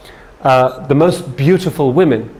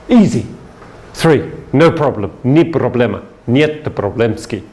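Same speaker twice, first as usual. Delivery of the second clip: mock Russian. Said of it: "That's how they say it in Russian".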